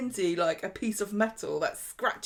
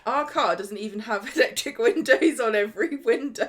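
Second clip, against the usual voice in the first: louder, amused complaint broken by laughter; laughing; 2 semitones higher, 5 dB louder than usual. Real, not acted. Co-host mocks their own basic car, laughing. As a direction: laugh through the grumble.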